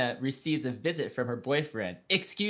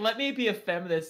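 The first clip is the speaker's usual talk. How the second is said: high, play-acted blaring megaphone-style shout; 6 semitones higher than usual. Quoting a woman they're criticizing, mock megaphone shouting. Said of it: "like shouting through a megaphone".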